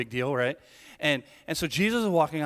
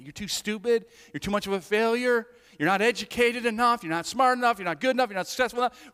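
accusing enemy; 6 semitones higher, 4 dB louder than usual. Acted.

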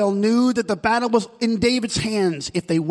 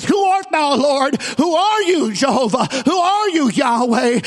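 Paul calls upward, pleading to know who speaks; Paul crying out; 4 semitones higher than usual. Acted.

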